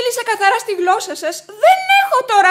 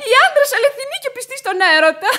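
laughing scorn; 5 semitones higher than usual. Acted. Widow ridiculing men's faithfulness, laughing scorn. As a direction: laugh through the words in disbelief. Widow mocks his claim.

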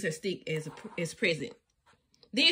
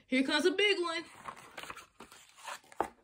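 slow, high playful warning; 8 semitones higher, 3 dB quieter, much slower than usual. A narrator's reading. Pretending waves splash them.

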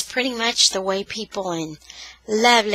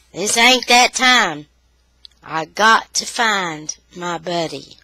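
put-on lightly Southern boy, defiant; Southern accent; 4 semitones lower than usual. Boy refusing to give up his dog, light Southern accent. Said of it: "reading with kind of a Southern accent".

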